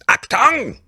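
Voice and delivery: high barked German command; mock German shout. Joking that a German invented the oven, mock German shout. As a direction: bark it like a cartoon German officer.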